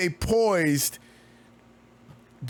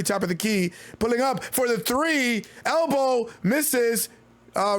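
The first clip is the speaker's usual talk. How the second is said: quick, lively game call; play-by-play call; 3 semitones higher than usual. Acted. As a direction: call the action as it happens. Live play-by-play calling.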